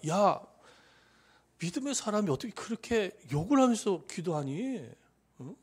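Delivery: mild mock reproach; imitated scolding. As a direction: act out a disapproving telling-off of a believer. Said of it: "하나님이 그렇게 지적을 안 하십니다".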